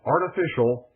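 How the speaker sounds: "artificial" set apart by pauses and emphasised; stress on artificial. Real, not acted. Broadcaster warning of an external threat, stressing "artificial". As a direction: lean deliberately on the word "artificial". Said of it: "I stress that word artificial".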